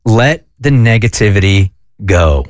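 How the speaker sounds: a hint of a solemn voice in the head; inner voice speaking. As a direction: drop the pitch and space the words out. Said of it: "I'm hearing".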